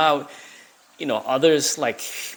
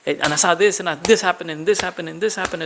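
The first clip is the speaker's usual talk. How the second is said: put-on chatty Cali girl; 4 semitones higher than usual. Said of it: "they're hitting you at the same time".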